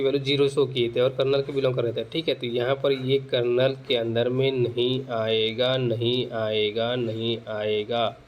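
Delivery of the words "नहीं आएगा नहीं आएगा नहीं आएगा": slow, drawn-out repeats, stepping gradually down; measured teacherly insistence, drawn out; slow emphatic repetition. Real, not acted. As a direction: stretch each repeat out slowly to drive it home. Teacher repeats the negation while explaining.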